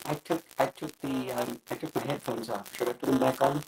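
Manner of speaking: tinny voice through a bad mic; static-laced, metallic sound. Real, not acted. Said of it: "you sound really metallic".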